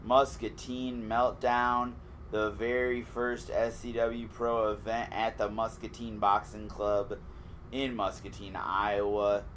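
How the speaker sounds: slow, drawn-out ring announcer build-up; hype man voice. Acted. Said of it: "you immediately go into your ring announcer voice".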